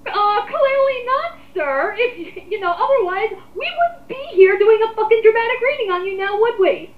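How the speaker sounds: talking down to the commenter with heavy sarcasm; sarcastic retort. Real, not acted. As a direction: sneer it right back at him. Mocking reply to commenter's claim.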